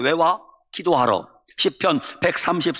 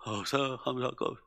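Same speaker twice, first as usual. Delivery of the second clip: weak refusal; 9 dB quieter than usual. Retold or imitated. Paralysed pastor refuses again.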